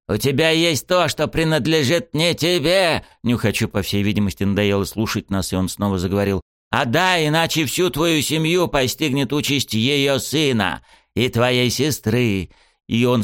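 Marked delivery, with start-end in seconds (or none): 0.1-3.1 high, slow, hissing demand; menacing villain. Acted. Sniffer demands what is his, high slow menacing demand. 6.7-12.5 high, very slow, relishing threat; gloating threat. Acted. Sniffer threatens the hero's family, high slow gloating.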